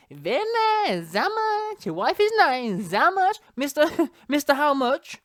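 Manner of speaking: high-pitched, drawn-out foreign caricature; hammed-up high voice, stretching the name; mock Klitschko. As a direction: send up the boxer in a high, silly accent. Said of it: "Klitschko, the mighty Klit".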